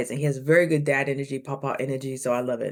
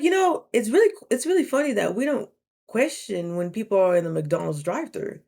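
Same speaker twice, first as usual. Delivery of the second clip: sassy; 3 semitones higher than usual. Retold or imitated. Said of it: "I didn't even mean to be that sassy".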